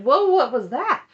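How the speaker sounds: slow, loud, startled "whoa"; mock surprise. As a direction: act caught off guard, drawn out. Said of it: "'cause Aspen's like".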